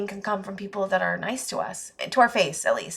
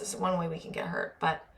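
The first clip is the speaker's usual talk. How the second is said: normal talking voice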